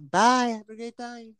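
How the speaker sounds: high cartoon character voice; chirpy cartoon goodbye. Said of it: "that shit from American Dad".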